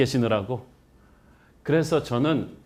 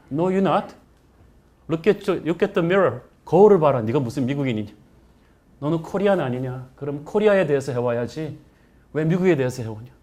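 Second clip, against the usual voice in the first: scornful rebuke, raised pitch; scolding. Retold or imitated. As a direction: tell him off sharply. Professor and friends scold student.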